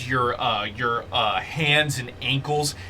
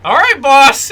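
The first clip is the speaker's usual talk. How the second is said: high, loud creature voice; little fire snake; 12 semitones higher, 13 dB louder than usual. Acted. Snake minion obeys his boss, high little voice. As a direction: give in to the boss in a high pipe. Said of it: "And Tommy goes".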